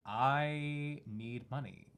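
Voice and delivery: slow, drawn-out needy line; lightly voiced robber, words stretched out slowly; robber's plea. Game master voices a robber rattling a bag, drawn-out plea.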